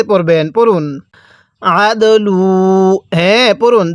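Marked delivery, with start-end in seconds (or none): 1.6-3.0 very slow আদলু with the dal bounced out. Shown as a demonstration. Teacher showing students the pushed dal, very slow recitation. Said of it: "দালটা পড়ার সময় ধাক্কা দিয়ে পড়বেন".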